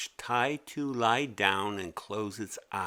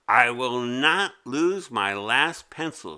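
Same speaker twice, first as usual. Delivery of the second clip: vowing; 6 dB louder than usual. Acted. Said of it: "she vowed".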